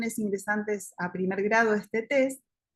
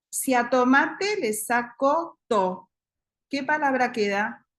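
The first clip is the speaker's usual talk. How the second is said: slow prompt; 3 semitones higher than usual. Shown as a demonstration. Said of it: "yo le digo".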